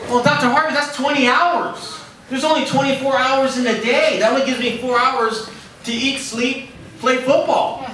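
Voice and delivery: high, laughing, pleading protest; incredulous student pleading with his professor. Retold or imitated. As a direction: argue the math through a laugh.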